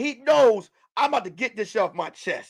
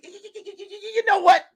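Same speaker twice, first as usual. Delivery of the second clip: Stephen A. Smith voice; 8 semitones higher, much faster than usual. Retold or imitated. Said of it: "let me do the right voice".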